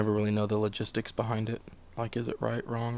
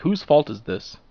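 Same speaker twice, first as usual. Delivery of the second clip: mock angry yell; 5 semitones higher, 9 dB louder than usual. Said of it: "So I just start yelling at anybody".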